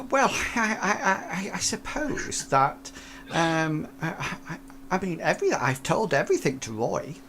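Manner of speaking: lightly voiced flustered old lady. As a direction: stammer it out like a nervous granny.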